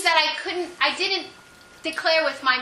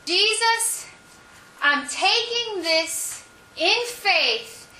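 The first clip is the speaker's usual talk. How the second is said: tearful prayer; 5 semitones higher, much slower than usual. Retold or imitated. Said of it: "I find myself saying these words".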